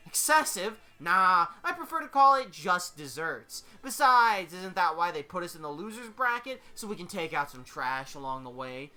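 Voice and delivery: theatrical smart-aleck justifying himself; cocky Deadpool, mock-innocent. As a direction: brush it off with showy swagger.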